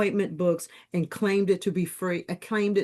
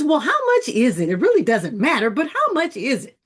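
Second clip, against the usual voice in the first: excited asking price; 6 semitones higher, 6 dB louder than usual. Retold or imitated. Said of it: "I says".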